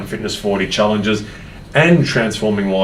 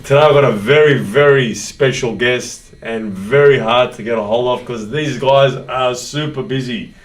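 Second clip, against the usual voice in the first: energetic, raised live-show welcome; podcast host intro; 3 semitones higher, 4 dB louder than usual. Real, not acted. Host greets Facebook Live followers, podcast intro voice. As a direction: open the show loud and punchy.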